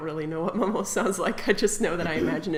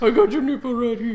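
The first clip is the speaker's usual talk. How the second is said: Madame Hassini voice; 2 semitones higher, 5 dB louder than usual. Pretend. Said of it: "Madame Hassini".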